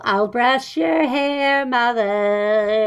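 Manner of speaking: slow, drawn-out devoted son voice; lightly put-on mama's boy, lingering on the words; clingy son. Parent imagining a clingy son offering to brush hair, clingy son.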